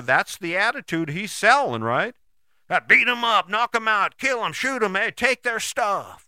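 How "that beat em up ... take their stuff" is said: mock tough talk. Voicing aggressive attitude.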